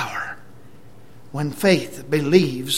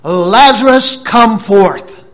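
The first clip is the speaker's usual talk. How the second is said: high, booming summons; powerful shouted command; loud voice; 6 semitones higher, 14 dB louder, slower than usual. Retold or imitated. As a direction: call into a tomb at full force. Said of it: "with a loud voice".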